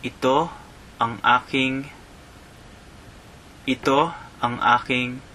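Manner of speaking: "Ito ang aking" said clearly, EE-toh ahng AH-king; model phrase. Shown as a demonstration. Teacher modelling the phrase for listeners. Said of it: "teach you a phrase".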